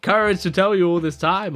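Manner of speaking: hammed-up frustrated guy rattling it off; rushed mock whine of a let-down confidant; exasperated guy. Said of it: "and then him being like".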